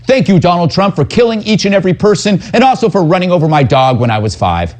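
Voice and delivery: high, rushed parody of a pundit's complaint; mock opinion rant. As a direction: race through a hammed-up grievance. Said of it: "a whole lot of smelly opinion".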